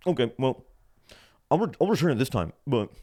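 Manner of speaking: high, loud put-on clerk voice; grudging clerk. Clerk accepting the return, mock grudging. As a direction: mimic a clerk conceding as a favor.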